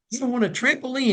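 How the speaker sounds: put-on high, proud little boy; little boy's voice. Boy corrects Santa nose to nose, proud high child voice. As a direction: play the boy, nose to nose and sure of himself.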